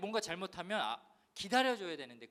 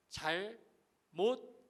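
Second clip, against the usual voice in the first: one syllable at a time; 4 semitones higher, much slower than usual. Retold or imitated. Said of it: "한 글자씩 외-, 외치는데".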